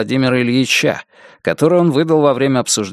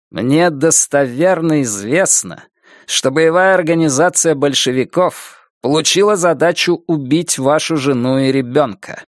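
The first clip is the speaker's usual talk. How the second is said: firm, clipped words; 3 semitones higher than usual. Acted. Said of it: "чеканя каждое слово, твёрдо".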